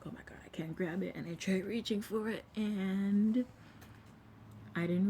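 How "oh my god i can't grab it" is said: hushed, breathless unvoiced oh my God; panicked whisper. Reliving reaching for the pool edge, panicked whisper. Retold panic while drowning.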